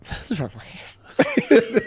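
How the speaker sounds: high, slow, laughing through the lie; laughing denial. Retold or imitated. Kid hiding a burnt finger from mom, laughing. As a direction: giggle while insisting nothing's wrong.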